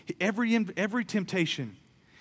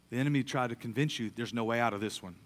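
ordinary talk, nothing marked

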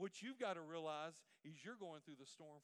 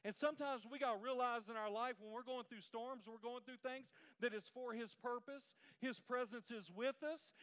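louder, driving preacher cadence; full-force preaching; 4 semitones higher, 8 dB louder than usual. Acted. Pastor driving his point home to the church, fervent. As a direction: build the congregation up.

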